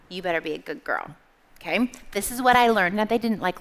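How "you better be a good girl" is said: parents' unspoken warning. Retold or imitated. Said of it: "what we learned from my parents was".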